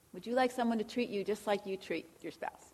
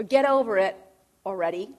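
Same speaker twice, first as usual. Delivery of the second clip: loud, impatient brush-off; dismissive snap; 4 semitones lower, 8 dB louder than usual. Retold or imitated. Preacher mimicking a dismissive spouse, loud and impatient. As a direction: bark it like you're fed up.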